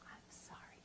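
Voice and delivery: soft unvoiced whisper; whispered cue for the helper's words; whispered prompt. Shown as a demonstration. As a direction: whisper the line to your partner. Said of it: "say, say my words".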